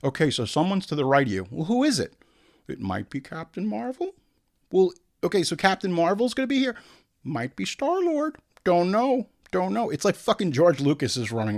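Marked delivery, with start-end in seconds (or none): 0.0-9.9 clueless director. Retold or imitated. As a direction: rattle off guesses with no idea. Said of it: "They're like".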